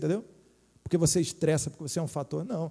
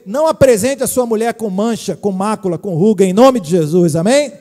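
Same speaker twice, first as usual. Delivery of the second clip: fervent preaching; 10 dB louder than usual. Real, not acted. Preaching climax to husbands.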